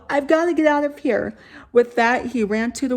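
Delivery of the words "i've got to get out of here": panicked. Acted. David panicking to flee.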